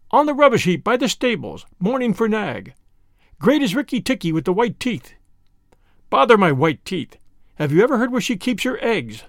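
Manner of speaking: high, bright-voiced chattering tailorbird; a proud bird praising its hero; excitable little bird. Tailorbird boasting about the mongoose's victory, high bird voice.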